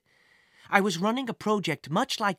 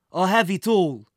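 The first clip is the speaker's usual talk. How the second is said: gruff villain; 8 dB louder than usual. A narrator's reading. Villain insists.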